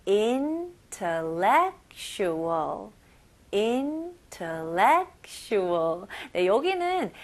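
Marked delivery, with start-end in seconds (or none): 0.1-2.9 very slow, every syllable drawn out; slow model word. Shown as a demonstration. Teacher models the word slowly for listening. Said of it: "여기 잘 들어보세요". 3.5-6.1 very slow, every syllable drawn out; slow model word. Shown as a demonstration. Teacher models the word slowly for listening. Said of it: "여기 잘 들어보세요".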